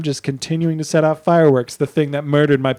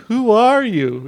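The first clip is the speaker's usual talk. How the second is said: put-on high kid voice; 8 semitones higher, 5 dB louder, slower than usual. Girl asking.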